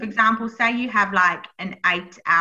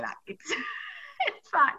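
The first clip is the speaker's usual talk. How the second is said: laughing reassurance; 10 semitones higher, 7 dB quieter than usual. Retold or imitated. Laugh heard on quoted reassurance.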